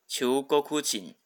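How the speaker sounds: slow Japanese 中国人, chuugo-KU-jin, accented on ku; teacher's drawn-out model of 中国人 as "chuugoKUjin". Shown as a demonstration. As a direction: stress the ku when reading 中国人 as Chuugokujin. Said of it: "它的重音是在哭上面".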